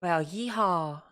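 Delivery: slow, hammed-up American cowboy yeehaw; mock American cowboy accent. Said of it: "the American accent today".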